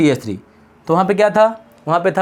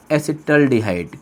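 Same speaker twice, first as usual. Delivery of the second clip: slow, lower, drawn-out term; slow dictation; 4 semitones lower, slower than usual. Shown as a demonstration. Teacher naming the second aldehyde for students, slow dictation. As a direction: spell it out by syllables. Teacher introduces new name slowly.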